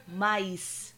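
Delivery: mais with a clear s, mice; São Paulo style mais ending in s; São Paulo accent. Shown as a demonstration. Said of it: "In São Paulo".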